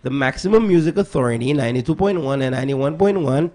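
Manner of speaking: put-on American radio-host accent; best American accent. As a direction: pitch yourself in a mock American accent. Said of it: "I'll put on my best American accent".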